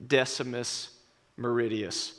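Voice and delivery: a hint of Russell Crowe's grave defiance; Maximus speech. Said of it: "And he says".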